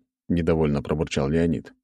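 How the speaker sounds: usual speaking voice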